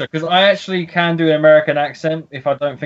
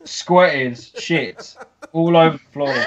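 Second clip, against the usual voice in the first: laughing; slower than usual. Real, not acted. Laughing while telling dog story.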